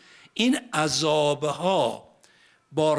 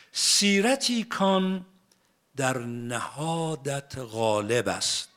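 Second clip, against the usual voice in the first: poem recitation; much slower than usual. Acted.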